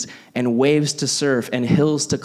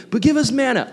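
whiny crowd; 10 semitones higher, faster than usual. Retold or imitated. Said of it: "He just keeps saying".

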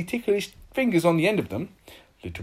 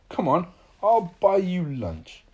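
cheerful; 3 semitones higher, 6 dB louder, slower than usual. Acted. Cheered Mister Happy.

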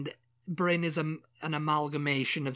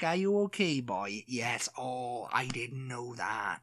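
put-on broad Welsh accent; 3 semitones lower, 3 dB quieter, slower than usual. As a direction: ham up a Welsh local. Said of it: "They're talking like that at you".

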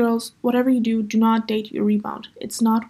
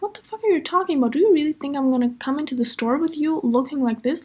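higher-pitched, rapid indignant opening; retold indignant outburst; 4 semitones higher than usual. Retelling confronting the boyfriend in the parking lot, indignant. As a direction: act out outraged disbelief.

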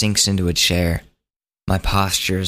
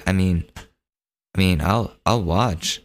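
slow, reluctant hedging; hesitant; slower than usual. Retold or imitated. Teen hedging when his friend offers a smoke, hesitant. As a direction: stretch it out, unsure.

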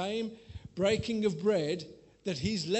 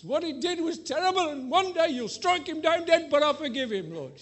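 building to a high, loud wail; hammed-up prayer from earnest to shouting; pleading prayer; 7 semitones higher, 6 dB louder than usual. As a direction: plead with God louder and higher.

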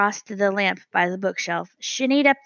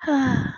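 tender sigh; 4 semitones higher than usual. A narrator's reading. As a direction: sigh fondly over the bird. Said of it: "sighed a tender sigh".

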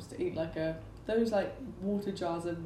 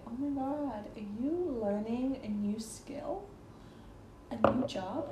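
lilting mock-Canadian customer; amateur Canadian accent, drawn out; 3 semitones higher, 3 dB quieter, slower than usual. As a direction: put on a gushing Canadian accent. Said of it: "Canadian accent, so please don't hate me".

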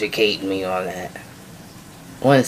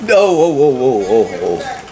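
excited whoa. Real, not acted. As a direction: call whoa over and over, caught off guard. Reacting to a clip.

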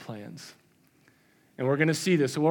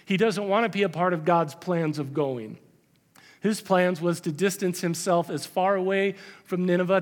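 ordinary talk, nothing marked

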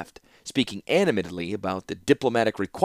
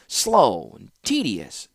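Rusko's voice; 3 dB louder, much slower than usual. Acted. Rusko answers the warlord.

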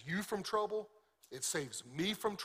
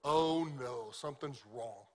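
worried thought; 4 semitones lower, slower than usual. Retold or imitated. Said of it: "we always think".

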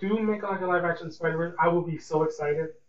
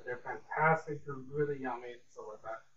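pop-singer-ish; 4 semitones lower, 9 dB quieter than usual. Real, not acted. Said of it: "I don't know why I said it like that", sounding like a pop singer.

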